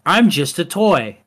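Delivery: lightly voiced innocent robot doll; slow, mildly artificial sing-out; unnatural voice. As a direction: play harmless, a touch unnatural. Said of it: "more of an unnatural voice".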